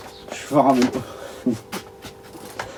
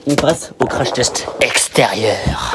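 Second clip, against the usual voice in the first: whisper; much slower than usual. Real, not acted. Whispered slow announcement.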